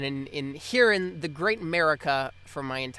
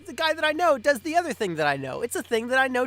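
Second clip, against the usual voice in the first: excited; 10 semitones higher, 5 dB louder than usual. Retold or imitated. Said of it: "So I was like".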